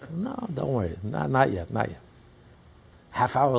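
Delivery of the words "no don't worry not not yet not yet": imitated doctor, higher voice; dismissive reassurance. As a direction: brush off the worried mother. Acts out doctor dismissing the mother.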